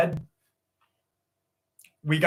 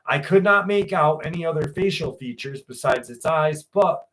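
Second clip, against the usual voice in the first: story narration. A narrator's reading. Reads a creepy first-person story aloud.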